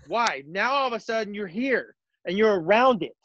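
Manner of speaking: walk them through it like a clinic; coaching demo. Shown as a demonstration. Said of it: "show the Twitter world how to".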